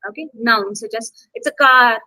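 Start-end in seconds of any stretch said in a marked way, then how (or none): 1.4-2.0 CAR said loud and long; stress on CAR. Shown as a demonstration. Teacher showing students how nouns are stressed, stress on CAR. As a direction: put the weight on the noun CAR. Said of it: "you have to stress on them".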